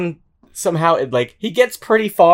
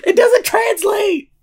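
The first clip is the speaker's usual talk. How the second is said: high laughing shout while tickled; squealing through laughter, slow; being tickled; 3 dB louder, slower than usual. Real, not acted. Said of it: "Stop tickling me!".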